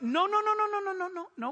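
high, rapid string of noes; emphatic no. Real, not acted. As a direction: shut it down hard. Emphatic rejection.

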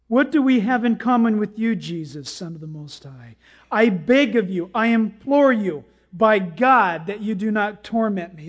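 loud demon plea, easing off at times; preacher voicing a begging demon; demon crying out. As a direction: cry out in mock entreaty to Jesus. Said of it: "this demon cries out with a loud voice".

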